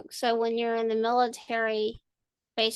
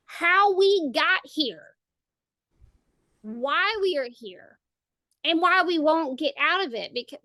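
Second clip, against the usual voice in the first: ranting at Twitter; 4 semitones higher than usual. Retold or imitated. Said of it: "And I'm like".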